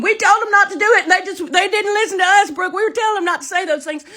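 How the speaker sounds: very high, loud mock-girl voice; hammed-up high-pitched protesting; girls pleading. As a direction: squeal excuses like panicky teenage girls. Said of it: "girls were in the background going".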